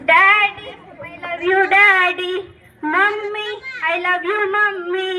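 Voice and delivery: put-on a child calling out to daddy and mommy, Daddy shouted; lightly voiced little girl, eager; child's voice. Child greets parents.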